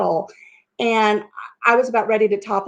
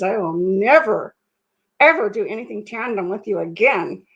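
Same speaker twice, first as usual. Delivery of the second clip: clenched teeth. Retold or imitated. Husband swearing off tandem with wife, through clenched teeth. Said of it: "he's got clenched teeth".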